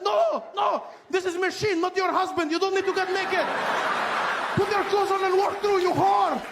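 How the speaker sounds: very high, loud outraged scolding; guard yelling at the undressing woman; shrieking guard scolding. Retold or imitated. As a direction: scold her in shock. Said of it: "She's like".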